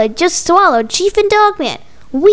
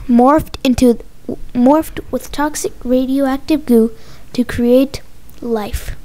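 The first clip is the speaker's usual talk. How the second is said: suspenseful narration; 3 semitones lower than usual. A narrator's reading. Narrator tells of toxic goo creating life, low and suspenseful. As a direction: narrate ominously, pausing between phrases.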